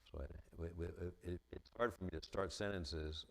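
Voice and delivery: halting restarts as a stutterer fights to begin; stuttering. Real, not acted. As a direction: stammer on the opening sounds. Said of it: "now, I'm a stutterer".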